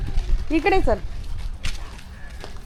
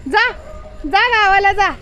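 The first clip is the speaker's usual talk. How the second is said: usual speaking voice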